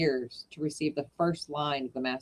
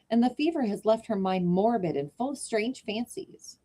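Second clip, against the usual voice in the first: Sue pleading; 6 semitones higher than usual. Acted. Sue voiced.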